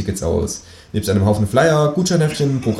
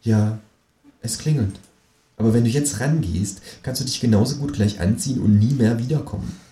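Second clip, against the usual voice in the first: purring woman; 3 semitones higher than usual. Acted. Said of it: "säuselt eine Frauenstimme".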